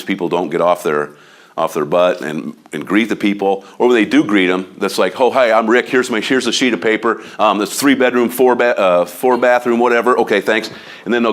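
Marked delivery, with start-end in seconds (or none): 5.2-10.7 bored agent impression. Agent mocks a lazy colleague's greeting, hammed-up indifference. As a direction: rattle it off like you don't care.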